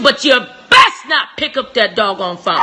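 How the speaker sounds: slow, stern shouted warning; nearly cussing, drawn out and firm. Real, not acted. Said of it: "Almost cussed".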